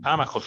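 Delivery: Amajos with the stress on the opening A; stress on first A. Shown as a demonstration. Confirming a Greek word to the group, Amajos accented on its first A. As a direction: lean on the first syllable of Amajos. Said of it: "con acento en la A".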